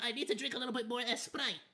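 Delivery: Spanish accent with "Sprite" as "Esprite". Real, not acted. Streamer excusing his slip with a drink, Spanish accent. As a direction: let the Spanish accent add an "e" before "Sprite". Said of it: "sorry that the accent came out".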